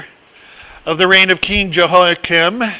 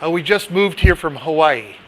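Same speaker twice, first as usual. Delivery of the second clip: a light put-on Southern accent; retold line in a Southern accent; thicker Southern accent. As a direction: imitate a neighbor's Southern accent. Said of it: "with an even thicker accent".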